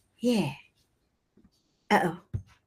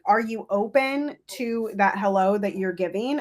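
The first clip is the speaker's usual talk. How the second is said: usual speaking voice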